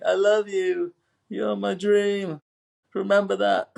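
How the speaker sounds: high, loud, hammed-up mother's voice; mock-dramatic declaration. Retelling mum running back out after him, melodramatic. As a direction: gush it in exaggerated falsetto, breaking into laughter at the end.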